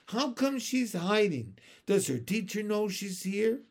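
high-pitched schoolchildren's questions; high, puzzled questioning; curious onlookers. A narrator's reading. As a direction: pipe up nosily from the crowd. Curious crowd of children asking.

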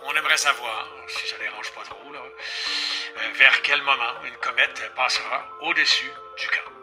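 put-on old man on the phone; tinny phone-line old man. The speaker on the phone.

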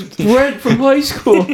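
slow, high mock recognition that falls at the end; feigned surprise. Friend skipping the whole line, drawn-out fake surprise. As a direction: stretch out a staged recognition. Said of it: "fake walk up".

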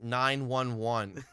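slow, drawn-out sarcastic answer. Retold or imitated. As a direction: spell it out slowly, as if obvious. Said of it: "like, sarcastically".

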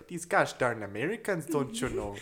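hammed-up Minnesota accent; mock Minnesota accent. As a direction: grumble like a Minnesotan. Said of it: "the Minnesota".

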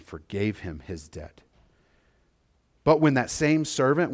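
measured reading of the Bible passage; scripture reading. Acted. Pastor reads Jesus' parable aloud to the congregation, measured scripture reading. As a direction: read the parable with gravity.

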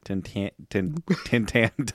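stumbling over "Tentan-" and breaking off; tentative "tentan-", abandoned mid-word; false starts on "tentan-", unsure of the sounds; struggling to pronounce. Real, not acted. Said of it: "I don't know how to pronounce it".

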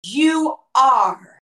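slow, fervent worship declaration; stretched, impassioned address to God; reverent worship. Acted. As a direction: draw each phrase out in adoration. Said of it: "when you worship him, you say".

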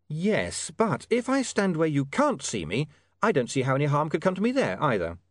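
lightly voiced, reasoning William. William questioning the hidden voice's order, lightly voiced and reasoning.

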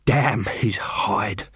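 breathless slow whisper; panting. Acted. Vimes out of breath after the fight, panting whisper. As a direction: gasp it out between breaths. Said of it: "he panted".

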